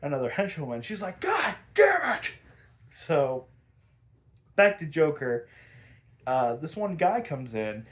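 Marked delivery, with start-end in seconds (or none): 1.2-2.3 high, drawn-out mock wail; hammed-up high-pitched cursing; retold frustrated outburst. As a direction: imitate an outraged cry, slowly. Harley hears she is replaced.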